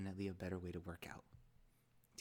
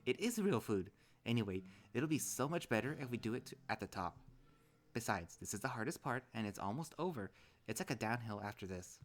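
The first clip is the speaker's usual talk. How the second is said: TJ's voice; 3 semitones higher, 4 dB louder than usual. Acted. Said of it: "that's how he sounds".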